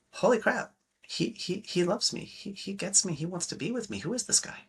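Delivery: high, breathless amazement playing a smitten woman; a woman stunned that he gets her; amazed woman.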